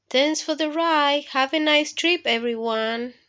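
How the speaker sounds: boastful little germs bragging. Acted. Germs introduce themselves.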